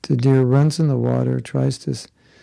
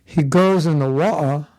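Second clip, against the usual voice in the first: mock Cockney; slower than usual. Shown as a demonstration. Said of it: "a certain street of England".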